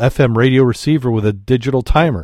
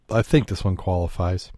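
hushed, conspiratorial whisper; 3 semitones lower, 6 dB quieter than usual. Acted. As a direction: whisper it like a secret before the joke. Teasing the joke before telling it.

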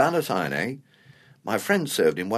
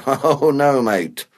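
drawn-out, louder "oh" of protest; emphatic disagreement; 5 dB louder, much slower than usual. Acted. Veteran correcting his mate about challenges, emphatic disagreement. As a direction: firmly wave the idea away. Protests that pensioners are worse.

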